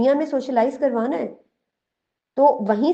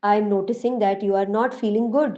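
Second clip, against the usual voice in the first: put-on very slow, tender words to a child; gentle reassurance; much slower than usual. Shown as a demonstration. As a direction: slowly soothe an upset child. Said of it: "اس کو بتائیں کہ". (روتے بچے کو آہستہ پیار سے تسلی)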